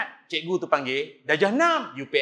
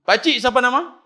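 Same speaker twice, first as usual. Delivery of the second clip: put-on high, loud, cheeky kid voice; cheeky child; 8 semitones higher, 12 dB louder than usual. Boy in slippers boldly asking the old imam his name, high and cheeky. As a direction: pipe up like a bold little boy.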